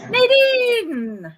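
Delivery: loud, high announcer call. Real, not acted. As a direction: call the winner's name out. Announcing the prize winner.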